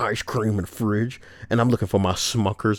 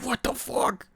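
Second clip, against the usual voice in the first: shocked disbelief; 5 dB quieter than usual. Acted. Outraged reading of chat message.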